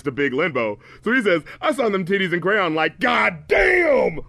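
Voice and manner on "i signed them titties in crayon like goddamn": hammed-up rapper imitation. Hammed-up repeat mocking the rapper.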